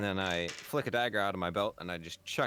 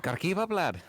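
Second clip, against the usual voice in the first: higher, louder teasing voice, calls out a 'lad'; teasing high character voice; 10 semitones higher, 5 dB louder than usual. Acted. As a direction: tease him from above, in a raised voice.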